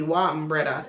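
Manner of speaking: relaxed Jamaican way to say Wam, breda; natural Jamaican greeting. Shown as a demonstration. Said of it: "It would be".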